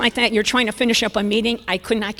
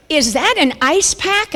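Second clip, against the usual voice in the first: higher, louder, drawn-out challenge; mock accusing question; 7 semitones higher, 6 dB louder, slower than usual. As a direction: imitate a husband catching her out. Husband confronts her in retold scene.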